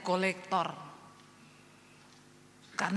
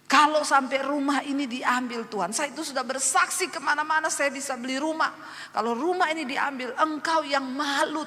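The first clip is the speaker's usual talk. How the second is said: higher, insistent retold plea; threatening prayer; 4 semitones higher than usual. Woman warning God about losing her house, threatening prayer. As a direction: press God with a warning, acted out. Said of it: "Jangan ngancam Tuhan".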